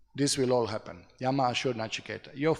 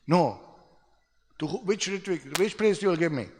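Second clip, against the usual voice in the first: louder, higher acted pestering; insistent son; 5 semitones higher, 4 dB louder than usual. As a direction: press your father for an answer. Acted son pressing his father.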